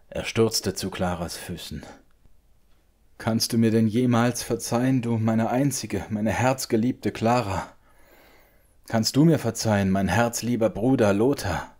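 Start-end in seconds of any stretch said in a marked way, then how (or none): 3.2-11.7 tiefer Schmerz. A narrator's reading. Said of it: "von des Freundes tiefem Schmerz".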